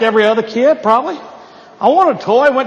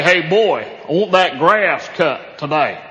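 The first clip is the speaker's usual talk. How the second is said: deacon dad; 7 semitones lower, slower than usual. Retold or imitated. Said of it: "your dad might say".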